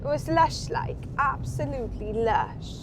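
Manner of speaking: put-on Welsh accent, slowing on the last words; playful Welsh accent. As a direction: gush in a mock Welsh accent. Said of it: "I thought Wales was your big thing".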